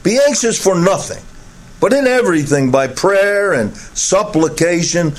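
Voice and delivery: measured, solemn reading of the passage; scripture reading. Acted. Pastor reads the scripture passage.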